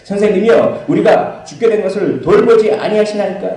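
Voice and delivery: high, loud accusing cry; loud complaint. Retold or imitated. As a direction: throw the complaint at the sleeping master. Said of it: "이건 엄청난 불평으로".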